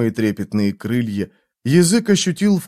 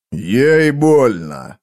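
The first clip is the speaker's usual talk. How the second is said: very slow, otherworldly drawn-out words; eerie burning man speaking; strange voice; much slower than usual. Acted. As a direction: let it hang unnaturally slow. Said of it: "сказал он".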